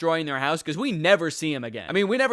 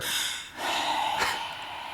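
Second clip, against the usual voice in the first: heavy breathing; 8 dB quieter than usual. Acted. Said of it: "sounded like she was on death's door".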